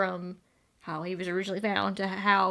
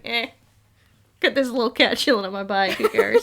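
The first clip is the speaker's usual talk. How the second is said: careless; 6 dB louder than usual. Retold or imitated. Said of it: "It's like".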